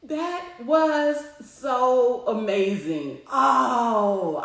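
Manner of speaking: slow, half-sung through real tears; tearful sing-song. Real, not acted. After the call, overwhelmed and singing out through tears. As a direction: let the joy spill over into crying.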